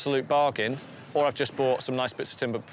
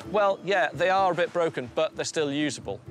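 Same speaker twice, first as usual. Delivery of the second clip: explaining to buyers; 4 semitones higher than usual. Acted. Dealer explaining damaged columns to customers, apologetic sales pitch. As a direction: make the excuse to a customer, starting high and emphatic. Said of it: "I've got to explain to people, say".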